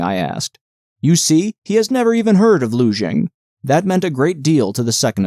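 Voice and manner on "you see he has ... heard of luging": mildly triumphant official. Acted. Official gloats over the other.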